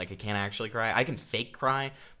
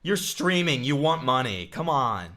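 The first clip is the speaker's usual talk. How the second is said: scoffing shout; 4 semitones higher, 6 dB louder, slower than usual. Acted. Scoffing at co-streamer's donation apology.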